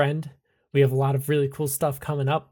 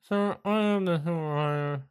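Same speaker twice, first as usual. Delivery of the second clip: travel agent; 4 semitones higher, 4 dB quieter than usual. Acted. GM voices travel agent on phone.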